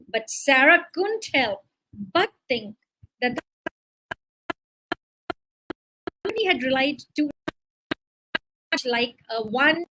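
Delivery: measured read-aloud narration; teacher narrating an example story. A narrator's reading.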